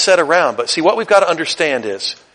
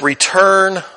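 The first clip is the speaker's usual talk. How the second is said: quiet earnest plea; 3 semitones lower, slower than usual. Retold or imitated. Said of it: "He says".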